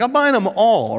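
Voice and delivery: buy every cookie, delighted; eager enthusiasm. Retold or imitated.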